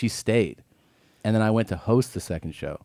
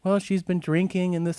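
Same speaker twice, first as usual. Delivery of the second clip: imitated excuse-making; 9 semitones higher than usual.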